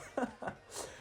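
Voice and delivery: soft, airy acted chuckle; imitated laugh. Boy laughing off a rebuff, soft imitated chuckle. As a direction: give a quiet mock laugh. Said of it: "And he kind of laughs".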